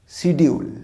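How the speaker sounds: schedule said as "শিডিউল" with a short i first vowel; everyday learner's "শিডিউল", shi- at the start; common mispronunciation. Shown as a demonstration. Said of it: "আমরা অনেকে এটাকে উচ্চারণ করি".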